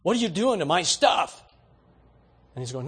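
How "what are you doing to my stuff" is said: a hint of an angry shopper, a bit louder; imitating her livid challenge; mock livid. Woman in Walmart line confronting a stranger, mildly mock angry. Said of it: "like, livid".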